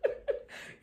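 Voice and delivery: slow, laughing tease at herself; laughing disbelief. Retold or imitated. Telling herself off about her posh test English, laughing. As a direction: drag it out through a laugh. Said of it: "'Cause I was like".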